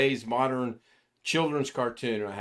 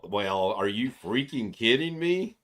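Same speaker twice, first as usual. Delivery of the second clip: laughing; slower than usual. Real, not acted. Laughing over the quip.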